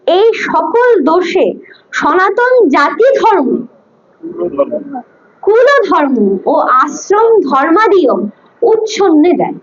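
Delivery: slow, word by word, for writing down; slow dictation. Shown as a demonstration. Teacher dictating to a student, slow and deliberate. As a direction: spell it out slowly so the student can write.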